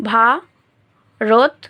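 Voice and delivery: "ভারতবর্ষ" very slow, pausing after each syllable. Shown as a demonstration. Teacher counting the syllables for students, "ভারতবর্ষ" syllable by syllable. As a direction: spread "ভারতবর্ষ" out as ভা, রত, বর, ষ. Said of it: "এখানেও আমরা পাচ্ছি একটা".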